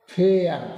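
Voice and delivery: फेयर said "fay-ar"; teacher modelling फेयर with a clear "ay"; model pronunciation. Shown as a demonstration. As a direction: stretch the "ay" in फेयर before the r. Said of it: "क्या पढ़ेंगे इसको".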